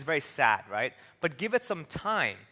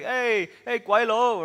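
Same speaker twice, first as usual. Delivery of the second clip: heckling yell; 5 semitones higher, 4 dB louder, slower than usual. Retold or imitated. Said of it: "some guy was like".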